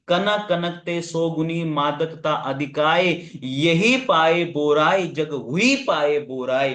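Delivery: measured couplet reading, slowing in the second half; verse recitation. Shown as a demonstration. Teacher reciting a couplet as an example, verse recitation.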